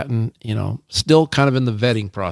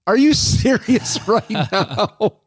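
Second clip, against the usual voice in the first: indignant disbelief; 11 semitones higher than usual. Retold or imitated. Wife's retold indignant reply.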